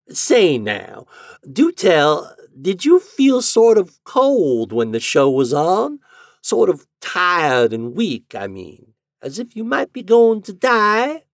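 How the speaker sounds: high, rising "Say now"; landlady's drawl. A narrator's reading. Landlady prodding the lodger about his feelings. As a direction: draw him in with "Say now". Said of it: "she went on".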